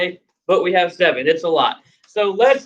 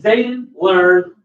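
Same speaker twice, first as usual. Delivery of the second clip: modeling slowly; 3 semitones higher, slower than usual. Shown as a demonstration. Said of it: "You said".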